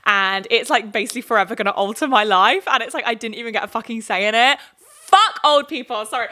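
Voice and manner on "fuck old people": sudden louder angry blurt; angry outburst. Real, not acted. Vlogger venting at older Leave voters, angry outburst. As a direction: spit it out in frustration. Ranting about Brexit voters.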